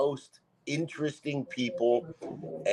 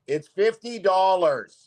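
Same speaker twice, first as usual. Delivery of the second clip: deadpan; 8 semitones higher, 7 dB louder, slower than usual. Retold or imitated. Quoting himself to a customer.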